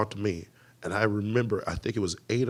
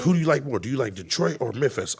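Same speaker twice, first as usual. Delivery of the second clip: eager, raised-voice quizzing; delirious excitement; 4 semitones higher, 6 dB louder than usual. Retold or imitated. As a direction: imitate a giddy friend demanding a favourite. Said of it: "we were delirious".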